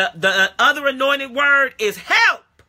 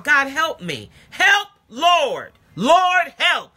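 crying out to God; 3 semitones higher, much slower than usual. Shown as a demonstration. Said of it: "Just cry out".

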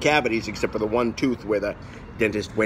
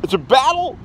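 bad acting; 10 semitones higher than usual. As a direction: ham it up like a bad actor. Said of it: "was my impression of a bad actor".

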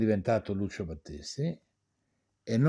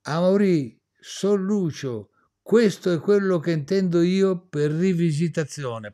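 Lucio's exact words; 4 semitones higher than usual. Retold or imitated. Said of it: "queste sono le parole esatte".

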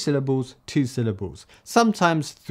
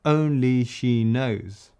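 slow deliberate reading; much slower than usual. Shown as a demonstration. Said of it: "I'm just gonna say".

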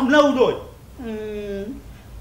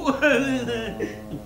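laugh; 4 semitones lower, 7 dB quieter than usual. Acted. Cười sau khi thưa ông chú.

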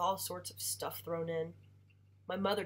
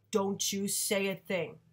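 slow, louder stern father; stern warning; 2 semitones higher, 6 dB louder, slower than usual. Acted. Father silencing mother, slow and stern.

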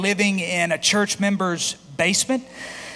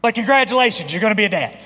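triumphant announcement; 4 semitones higher, 5 dB louder, much faster than usual. Acted. Punchline announcing fatherhood.

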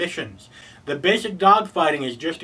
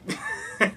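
brief, high, quiet laugh; small squeaky giggle; short chuckle; 6 dB quieter than usual. Real, not acted. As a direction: let out a little high-pitched laugh. Chuckles after his dry aside.

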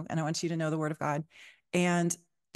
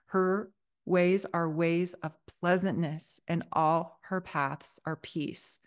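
scripture reading. Acted. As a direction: read it like a reverent devotional. Reads Proverbs passage aloud.

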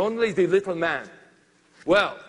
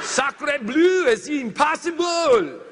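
slow, loud, higher shout of amazement; amazed shout; 6 semitones higher, 4 dB louder, slower than usual. Retold or imitated. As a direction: shout it out, stunned. Crew stunned by the result.

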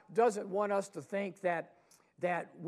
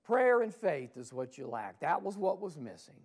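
louder repeat; 4 dB louder than usual. Acted. Jesus repeating to the disciples, louder and firmer. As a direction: repeat it louder, punching Prayer. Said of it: "And Jesus says".

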